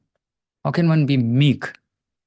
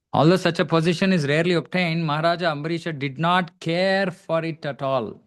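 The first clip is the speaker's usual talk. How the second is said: higher, emphatic read-aloud voice; scripture reading; 5 semitones higher than usual. Real, not acted. Teacher repeats the translation line he admires, raised emphatic recital. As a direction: read the line out, leaning on the key words.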